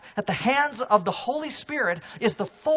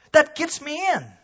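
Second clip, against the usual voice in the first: rising from firm to a much louder, higher cry; building shout; 7 semitones higher, 12 dB louder than usual. Acted. Preacher picturing baptism as the door, shouting the punchline. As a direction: build it to a ringing climax.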